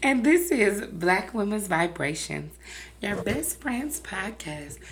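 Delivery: slow, drawn-out sultry intro; put-on sexy host voice. Real, not acted. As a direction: draw it out like a seductive podcast host. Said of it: "trying to put on your sexy voice".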